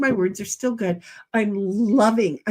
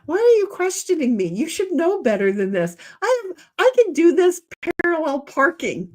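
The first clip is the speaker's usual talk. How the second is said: 1 mock indignant; 4 semitones higher than usual. Mock indignant retort to nephew.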